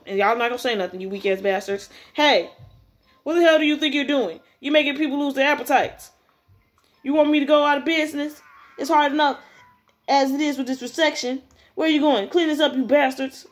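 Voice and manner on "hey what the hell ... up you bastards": mildly raised, irate scolding; acted indignant telling-off; angry scolding. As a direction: tell off troublemakers as an annoyed owner. Voices angry owner scolding bullies.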